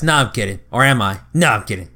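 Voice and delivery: mock teasing bit. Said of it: "classic cartoon bit".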